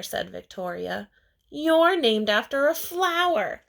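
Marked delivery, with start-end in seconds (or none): 1.5-3.6 high, loud, snooty sneer; mocking classmate. Victoria mocking Chrysanthemum for her flower name, high and snide. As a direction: jeer it like a mean kid.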